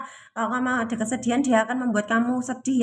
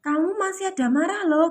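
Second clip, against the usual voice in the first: higher, gently teasing reminder; light playful prod, higher; voicing the universe; 7 semitones higher than usual. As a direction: nudge them like a friendly voice, pitched up. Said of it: "gitu loh bahasanya ya".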